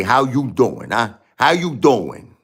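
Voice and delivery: a light Brooklyn "How you doing, huh?" with "How" stressed; Brooklyn greeting. Shown as a demonstration. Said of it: "you gotta say".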